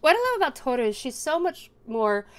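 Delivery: talking around hair in the mouth. Real, not acted. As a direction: speak with a strand caught on your lips. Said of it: "I've got hair in my mouth".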